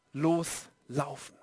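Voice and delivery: slow low quiet. Shown as a demonstration. Preacher lets the word settle on the congregation, slow and hushed. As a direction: let loslaufen sink down slowly and quietly.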